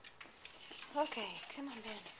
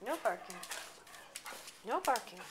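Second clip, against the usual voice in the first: firm loud no; 17 dB louder, faster than usual. Real, not acted. Scolding barking dog.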